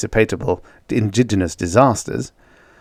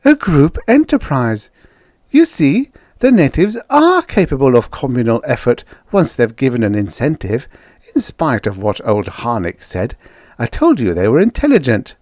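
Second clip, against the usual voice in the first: joyous; 5 semitones higher, 3 dB louder than usual. Acted. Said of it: "Judy replied joyously".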